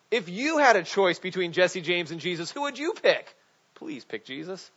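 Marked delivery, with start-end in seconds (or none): 3.8-4.7 quiet plea. Real, not acted. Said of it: "aside plea".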